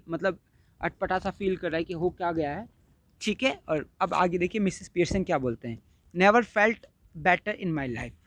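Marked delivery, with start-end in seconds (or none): 6.1-8.1 very slow, cool and unbothered; cool and calm. Acted. Mother answering her son, very slow and cool. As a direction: drawl it out coolly, like nothing matters. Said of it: "बड़े ठंडे स्वभाव से बोलती है".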